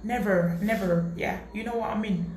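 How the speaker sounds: playing at an English accent; English-accented never with falling tune. Shown as a demonstration. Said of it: "ça a vraiment l'accent anglais".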